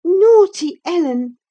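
high, loud playful scolding; young girl teasing her nurse; playful exclamation. A narrator's reading. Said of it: "exclaimed Catherine".

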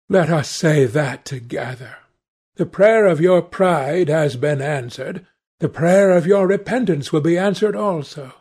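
earnest, mildly impassioned exhortation; pleading Hallward. Acted. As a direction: urge repentance in a lightly acted, solemn plea. Voices Hallward urging repentance.

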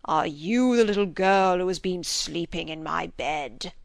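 slow, lightly voiced mock bear from the fairy tale; deep bear voice. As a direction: play a gruff storybook bear, half in jest. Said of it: "He imitated the deep voice of the fabulous bear".

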